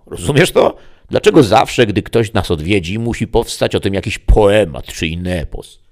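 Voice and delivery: high, loud devil griping; a demon complaining about visiting poets; grumbling devil. Acted. Demon tells the story. (diabeł narzeka na poetów, wysokim głosem)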